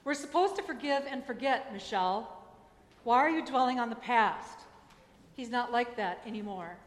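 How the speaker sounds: lightly imitated emphatic scolding; insistent retort, punching the key words; emphatic mom. Preacher retelling her mom's response on the porch, emphatic. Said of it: "is her emphatic response".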